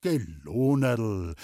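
slow, gentle consoling; comforting. Acted. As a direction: soothe her slowly. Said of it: "tröstete der Maler".

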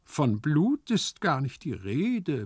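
drawn-out, pacifying tone; soothing. Acted. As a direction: placate him patiently. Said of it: "begütigte Hyazinth".

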